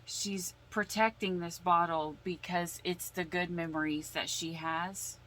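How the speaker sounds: ordinary talk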